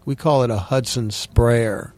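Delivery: slow Southern drawl on Hudson sprayer; easy Southern accent, slowed down. Real, not acted. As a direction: slip into a Tennessee Williams Southern accent. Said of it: "I have a tendency to slip into that accent".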